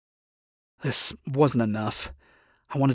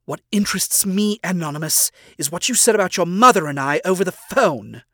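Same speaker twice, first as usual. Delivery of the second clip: higher, pointed voice of a smug owl demon; Stolas, probing; 5 semitones higher, 4 dB louder than usual. Acted. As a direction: lean in and pry, voice lifted.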